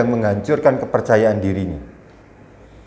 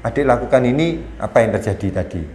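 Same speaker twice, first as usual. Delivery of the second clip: calm questioning. Shown as a demonstration. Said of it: "kita ngajukan pertanyaan".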